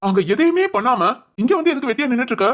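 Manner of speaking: mild, nagging scold. Acted. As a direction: chide them for dawdling. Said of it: "இப்ப எதுக்கு திட்டுற". (திட்டுற தொனியில்)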